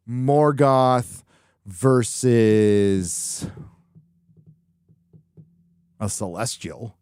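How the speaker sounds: loud, drawn-out matchup announcement; bill it like a title fight, stretching each name; big mock announcer call.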